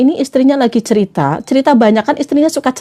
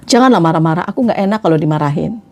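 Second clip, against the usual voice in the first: low, mild plea to a partner; calm plea; 8 semitones lower, faster than usual. Shown as a demonstration. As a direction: ask gently, voice dropped. Models how to tell partner. (memohon pelan dengan nada rendah)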